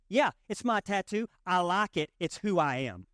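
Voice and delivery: imitated South Carolina country accent; Southern country girl. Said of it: "like, a country girl from".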